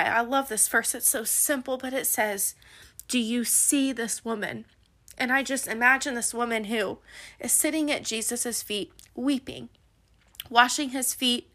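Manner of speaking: soft, moved and tender; hushed, as if holding back tears; close to tears. Real, not acted. Podcaster moved by her favorite Bible verse, softly near tears. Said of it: "this is gonna make me cry".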